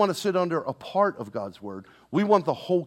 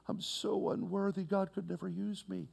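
mock self-pity; 4 semitones higher, 12 dB quieter than usual. Voicing a guilt-ridden believer.

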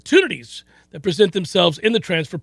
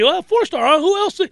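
mock sarcastic surprise; 11 semitones higher than usual. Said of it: "you'll see".

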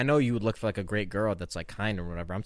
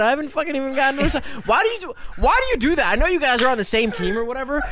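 loud; 11 semitones higher, 5 dB louder than usual. Acted. Mock outrage at dodged question.

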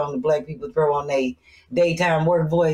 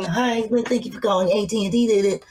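quick, lightly put-on customer-service greeting; daytime work voice; 3 semitones higher than usual. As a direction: rattle it off like a phone rep. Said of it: "that daytime work voice".

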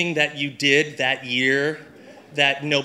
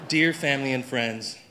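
reading through a laugh; can barely start for giggling; letter read through stifled laughter; laughing while reading; 3 semitones lower, 3 dB quieter than usual. Real, not acted. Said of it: "I wanna read a real Christmas letter to you".

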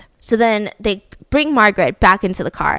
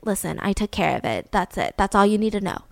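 curt dismissal; 2 semitones lower, 5 dB quieter than usual. Retold or imitated. Jack back at the car answering Barbara, imitated quiet dismissal. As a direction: imitate quietly shutting down questions. Killer shutting down questions.

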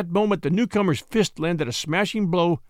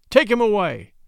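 loud, higher sharp command; 5 semitones higher, 5 dB louder than usual. A narrator's reading. Scott commanding the dealer to drag the bulldog away, loud and sharp. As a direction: order him off, no argument. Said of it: "Scott commanded".

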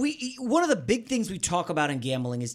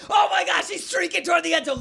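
excited play-by-play; 8 semitones higher, 4 dB louder than usual. Retold or imitated. Live recap of a thrilling play.

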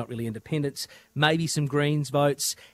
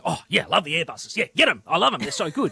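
gushing Airbus fans; 3 semitones higher, 4 dB louder than usual. Acted. Host mimics listeners who love the Airbuses, gushing mock excitement. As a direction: gush like an excited plane lover. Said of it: "people listening to us today going".

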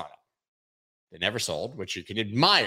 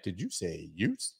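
put-on Brooklyn judge accent from My Cousin Vinny; 3 semitones lower, 9 dB quieter than usual. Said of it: "Brooklyn accent I just did".

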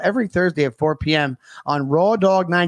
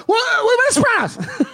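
a cry of disbelief, pitched way up; shocked outburst. Pretend. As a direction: blurt it out in disbelief. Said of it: "and you're like".

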